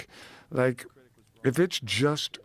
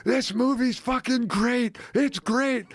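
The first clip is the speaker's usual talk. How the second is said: much higher, slow excited exclaim; excited disbelief; 11 semitones higher, slower than usual. Retold or imitated. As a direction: gush in disbelief. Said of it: "And I'm like".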